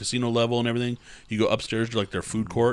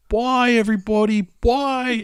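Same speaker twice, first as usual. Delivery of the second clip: high, loud sing-song farewell; sing-song old lady; 14 semitones higher, 7 dB louder, slower than usual. Retold or imitated. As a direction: wave goodbye in a high chirp. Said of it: "she was like".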